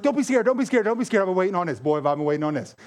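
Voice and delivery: an angel thrilled his moment finally came; eager angel. Retold or imitated. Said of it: "He's like".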